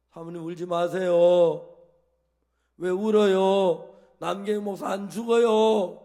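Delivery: loud, slow, firm comfort like Jesus; imitating Jesus. Pastor to the weeping wife on the phone, slow and loudly firm. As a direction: speak with Jesus' calm authority over a grieving wife. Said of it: "예수님 흉내를 냈어요".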